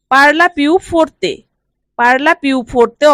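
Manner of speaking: very slow, syllable by syllable; slow dictation pace; slow model phrase. Shown as a demonstration. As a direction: stretch it out so learners can copy. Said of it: "teacher models Italian phrase slowly".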